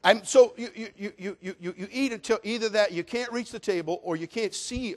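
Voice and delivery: laughing through the words; real laughter breaking the words. Real, not acted. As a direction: giggle as you talk.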